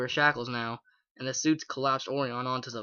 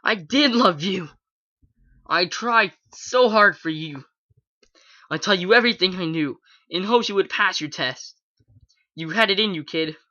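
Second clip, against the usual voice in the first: hateful scream; 4 semitones higher, 6 dB louder than usual. A narrator's reading. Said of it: "she screamed in return".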